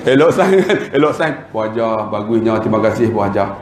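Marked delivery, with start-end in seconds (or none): 1.5-3.6 gentle, low, placating thanks. Acted. Staff thanking the fierce boss, low placating tone. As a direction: lower the voice and soothe her. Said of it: "Dia pun ada rendah".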